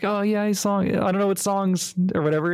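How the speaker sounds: put-on high, eager little kid voice. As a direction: squeak it out like a shy little boy. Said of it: "he's like".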